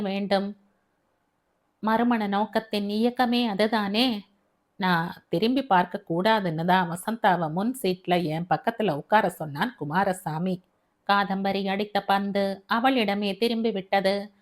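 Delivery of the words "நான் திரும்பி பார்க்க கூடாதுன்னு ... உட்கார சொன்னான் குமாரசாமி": lightly voiced father, a bit lower, earnest; a hint of a gentle older man asking a favour; fatherly voice. Father asks his new wife to care for daughter, gently earnest.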